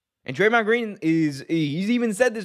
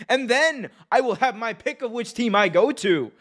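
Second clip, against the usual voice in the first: put-on excited kid rambling; 6 semitones higher than usual. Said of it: "all these people who think".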